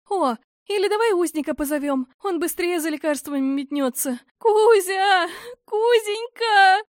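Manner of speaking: high, loud panicked call. A narrator's reading. Heroine calls out for help.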